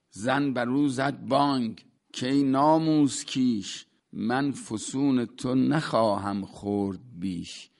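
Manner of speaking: measured, rhythmic recital of classical verse; poem recital. Acted. Teacher reciting a Rumi couplet to his class, measured recital.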